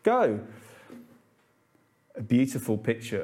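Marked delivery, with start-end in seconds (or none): 0.0-0.4 high-pitched, hammed-up friendly bishop; kindly bishop. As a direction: play the bishop greeting a friend, voice lifted high. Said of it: "the bishop turns around and goes".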